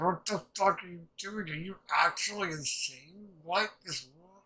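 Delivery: exasperated girl, lightly imitated; imitated outrage. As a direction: act out an incredulous telling-off. Acting out the girl's outraged questions.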